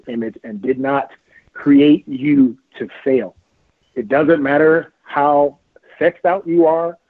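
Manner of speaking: slow, earnest preaching to listeners; preachy moment. Real, not acted. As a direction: preach it slowly, word by word. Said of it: "So here's my preachy moment".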